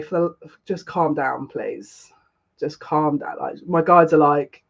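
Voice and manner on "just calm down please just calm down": soft, low self-soothing; trying not to cry. Real, not acted. Emotional streamer telling herself to settle, softly holding back tears. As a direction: talk yourself down, voice dropping away. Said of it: "Oh, God, I'm gonna cry".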